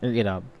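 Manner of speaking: इराब with short i, softly confirmed; correct pronunciation. Shown as a demonstration. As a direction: answer इराब as the model form. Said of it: "सही pronounce क्या है?".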